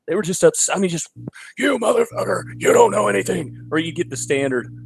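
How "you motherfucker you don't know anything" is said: high mock shout; mock angry commenter. Upset group member insulting the poster, high mock shout. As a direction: yell it like an upset commenter, hammed up.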